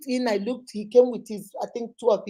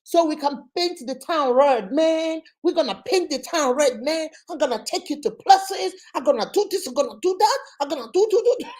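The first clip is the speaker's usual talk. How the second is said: imitated Chicago smooth talker; mock American accent; 3 semitones higher than usual. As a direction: brag in fake American slang. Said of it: "how did he say it".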